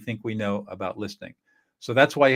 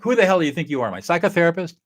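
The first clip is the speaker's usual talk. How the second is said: louder, higher, offended; indignant pushback; 6 semitones higher, 5 dB louder, faster than usual. Retold or imitated. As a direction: push back, offended. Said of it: "when you get pushback".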